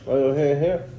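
talking through a mouthful of apple; chewing while talking; mouth full. Real, not acted. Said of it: "Your mouth is full of apple".

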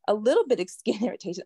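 quick, disbelieving echo with a laugh; laughing mock repeat. Survivor echoing what doctors told her, laughing bitterly. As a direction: scoff at the understatement with a short laugh.

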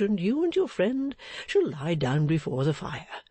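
lightly voiced old man, sympathetic; a touch of a good-natured old fellow. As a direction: offer comfort as a friendly sexton.

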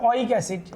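ওয়িক অ্যাসিড said clearly as oik esid for the class; teacher's pronunciation. Shown as a demonstration. Teacher shows students how to pronounce it, careful model. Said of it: "এটার উচ্চারণ হবে".

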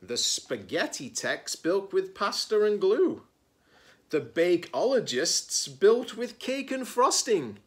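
lilting read-aloud, lifting on phrases; picture-book narration. A narrator's reading. Reader introduces the maker teams to children, lively storytelling.

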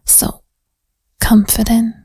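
put-on whispered interrogation with a New Jersey-ish accent; teasing detective grilling a suspect, New York accent. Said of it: "my accent even went a little bit more, like, New York, New Jersey-ish".

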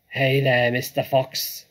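loud, taunting hail; yelled. A narrator's reading. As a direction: holler it at the enemy. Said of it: "yelled Bunce".

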